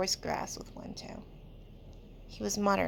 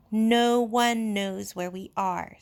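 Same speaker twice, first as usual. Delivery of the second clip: breathless worry; 2 semitones higher, 5 dB louder, slower than usual. Acted. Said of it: "paler than before and breathless".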